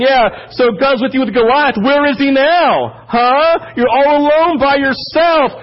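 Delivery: scoffing at David's faith; mocking enemies. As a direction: sneer it like a mocking adversary. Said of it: "They're making fun of me".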